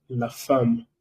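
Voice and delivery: la femme with an a sound, fam; French pronunciation. Shown as a demonstration. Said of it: "eso se pronuncia". (la femme pronunciado fam)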